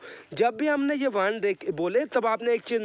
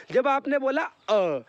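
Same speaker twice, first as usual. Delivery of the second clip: ordinary talk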